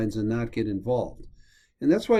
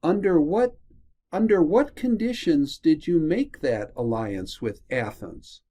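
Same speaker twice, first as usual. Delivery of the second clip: challenging question; 3 semitones higher than usual. Acted. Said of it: "he goes on in this part right here to say".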